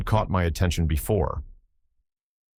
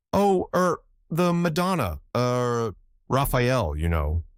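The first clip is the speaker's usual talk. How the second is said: flustered secretary; 5 semitones higher, slower than usual. A narrator's reading. Flustered secretary fumbling an answer.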